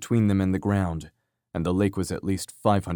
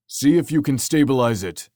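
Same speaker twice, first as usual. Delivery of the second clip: urgent shout, higher and louder; scream; 5 semitones higher, 5 dB louder than usual. A narrator's reading. Tony to Frank as the craft spins, screaming. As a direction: shout an order over the chaos. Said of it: "he screamed at Frank".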